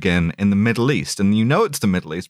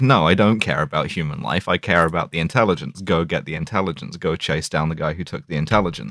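imitating M; 7 semitones lower, 3 dB quieter than usual. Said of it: "doing her M thing".

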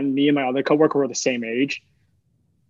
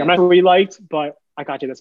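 high and louder, kind coworker; sweet coworker voice; 4 semitones higher, 6 dB louder than usual. Retold or imitated. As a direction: voice her sweetly, higher and louder. Retold again, louder.

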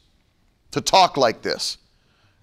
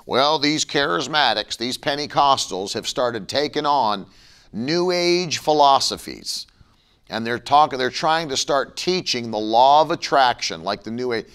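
mocking critic; 4 semitones lower than usual. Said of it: "people start mocking this".

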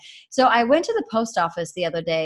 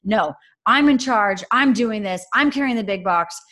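mock firm mom; 3 semitones higher, 5 dB louder than usual. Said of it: "my first instinct is like".

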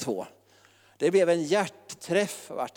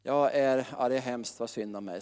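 mock moaning, sinking softer and lower; mocking self-pitying people, a sinking mock moan; self-pitying whine; 5 semitones lower, 4 dB quieter than usual. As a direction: sigh out the pity for yourself. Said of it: "Så vill man ha lite medömkan".

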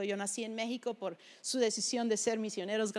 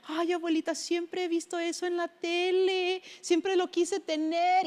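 put-on a touch of a pleading little girl, higher and slow; child begging grandma, mildly higher; childish begging; 5 semitones higher, slower than usual. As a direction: lightly voice a little girl asking her grandma for a treat.

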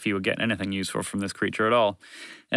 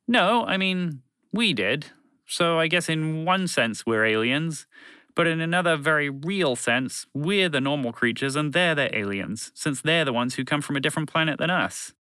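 higher-pitched pedantic explanation; a touch of a quibbling alien; lightly voiced alien creature, explaining; 6 semitones higher than usual.

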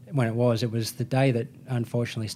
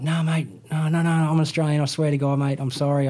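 higher-pitched, hurried-sounding protest of innocence; retold pleading; 3 semitones higher than usual. Suspected fake Australian pleads with the security guard, retold pleading. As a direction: replay an earnest plea, pitched up.

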